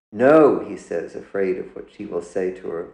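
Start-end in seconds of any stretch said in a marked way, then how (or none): 0.1-0.6 a sharp, much louder, higher no; loud refusal. Acted. Son refusing his mother's question, loud outburst. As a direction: shut the question down hard.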